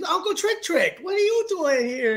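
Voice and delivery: high-pitched child imitation; excited little kid. Son greeting his uncle backstage, excited little kid. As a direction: pipe up like a delighted small boy.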